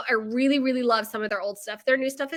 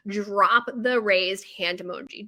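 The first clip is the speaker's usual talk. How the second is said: mock proud pro; 3 semitones lower, slower than usual. Shown as a demonstration. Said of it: "just like a pro does".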